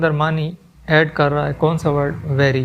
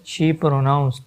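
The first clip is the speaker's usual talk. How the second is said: very slow and drawn out; slow dictation; 2 semitones lower, much slower than usual. Shown as a demonstration. Teacher repeating part of the sentence for students, very slow. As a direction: stretch it out for the class. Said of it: "teacher repeats example words".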